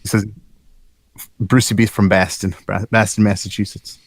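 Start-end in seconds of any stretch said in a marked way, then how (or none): 1.4-4.0 put-on weak Boston accent on a chat name; reading a name in a Boston accent. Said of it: "I have a terrible Boston accent".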